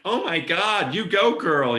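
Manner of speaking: high, loud camp squeal; flamboyant gay voice. Retold or imitated. Director imitating a flaming theatrical storyteller, high camp squeal. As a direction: ham up a flamboyant theatrical gushing. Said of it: "like some flaming theatrical gay person".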